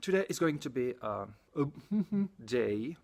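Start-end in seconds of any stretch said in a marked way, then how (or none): 1.7-2.4 brief higher-pitched chuckle; short giggle. Real, not acted. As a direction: let out a quick little laugh. Amused while describing the day.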